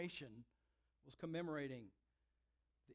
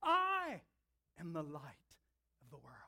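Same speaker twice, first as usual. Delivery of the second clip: bold declaration; 2 semitones lower, 6 dB louder than usual. Acted. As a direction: proclaim it boldly, like a claim from God. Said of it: "boldly declares".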